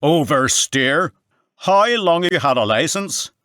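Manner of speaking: Northern Irish sergeant unimpressed by the excuse, loud; incredulous Northern Irish. A narrator's reading. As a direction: drag out "Oversteer" in disbelief, Northern Irish. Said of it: "wasn't impressed".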